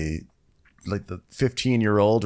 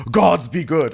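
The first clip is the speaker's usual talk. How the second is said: retold shock; 5 semitones higher, 5 dB louder than usual. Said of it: "He goes".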